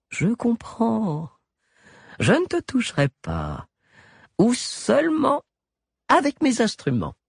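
creepy surgeon soothing his captive; sly doctor. A narrator's reading. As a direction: purr the threat with a smirk. Galien voiced, mellifluous smirk.

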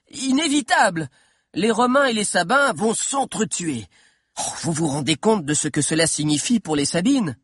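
put-on animated boyish voice, stressing the stakes; young historian dramatising. A narrator's reading. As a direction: press the audience with the drama. Figure of Valère at the climax.

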